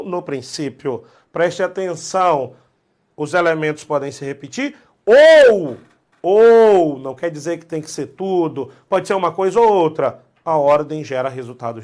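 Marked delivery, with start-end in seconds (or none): 5.0-7.0 "ou" bem alto e alongado; ênfase em OU. Real, not acted. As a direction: estique e projete cada "ou". Professor destaca a palavra-chave. ("ou" alto, esticado, enfático)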